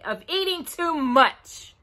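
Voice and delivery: slow, understated stern rabbit; a hint of a stern scold; mildly stern, slow. A narrator's reading. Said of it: "said Pooh sternly".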